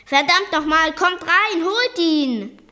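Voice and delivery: loud, high exasperated order; worked-up shouting. A narrator's reading. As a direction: order them back in, loud and cross. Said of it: "regte er sich auf". (aufgebracht und laut gerufen)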